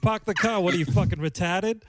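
lightly voiced Boston accent yelling; a hint of a Boston mom snapping at her kid; mock Boston mom yell. Teasing Hilaria's hidden Boston accent, mock yelling at kid. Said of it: "her actual accent kicks in when she's yelling".

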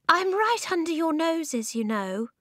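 high, put-upon little man; exasperated weedy voice. A narrator's reading. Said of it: "There was a sigh".

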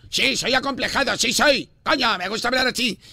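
defiant mock Castilian accent; Spain accent. Prankster insisting to irritated caller, put-on Spain accent. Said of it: "¿por qué hablas así?".

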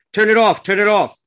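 high, loud desperate scream; screaming plea. Acted. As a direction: beg them to shut it off. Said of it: "he screams, pleads".

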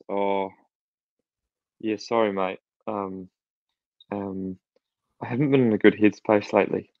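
halting, subdued excuse with long hesitations; imitated sheepish apology. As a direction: play the driver owning up awkwardly. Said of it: "he just sort of looked at me and goes".

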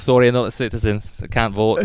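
lightly put-on Scottish accent; a hint of Scots in a polite refusal; retold fake-Scottish excuse. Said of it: "went through with a Scottish accent".

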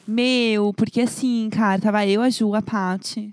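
São Paulo accent demo, drawn out at the end; casual São Paulo slang accent; paulistano accent. Shown as a demonstration. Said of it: "esse aí é o mais paulista paulistano".

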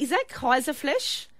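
mock German accent on Kaiserfleisch; a light put-on German accent. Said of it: "I don't know why I did an accent".

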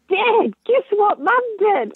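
bursting to dob mum in; eager tattling. Retold or imitated. Son telling on mum.

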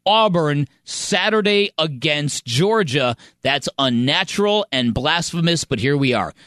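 measured, emphatic article read; reading a column aloud. Acted. Host reads Alabama newspaper column to colleagues, emphatic read-aloud. I wanna read you a story.

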